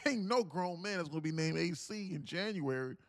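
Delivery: panicked trader. Retold or imitated. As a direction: keep the frantic trader going, squeaking up on every "what the hell". Same trader reacting to chat.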